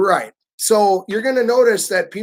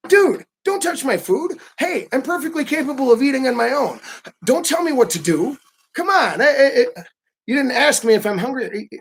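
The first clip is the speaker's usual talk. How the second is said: annoyed American; 6 semitones higher than usual. Retold or imitated.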